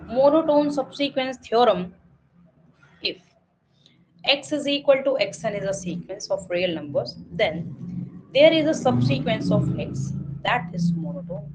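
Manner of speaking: slow, even reading of a theorem; slow textbook reading. Acted. Teacher reads theorem to students slowly. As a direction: read each word out slowly for the class.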